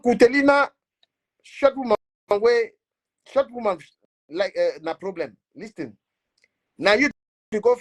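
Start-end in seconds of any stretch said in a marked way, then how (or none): 0.0-3.8 high, loud jeering call across the room; mocking call-out. Real, not acted. Blogger loudly calling out a rival woman, jeering. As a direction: call her out, teasing and loud.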